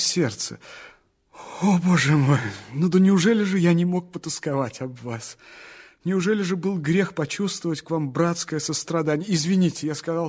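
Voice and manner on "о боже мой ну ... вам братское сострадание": fervent plea. Acted. Dreamer pleading his innocence to the girl, fervently. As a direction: burst out, begging her to understand.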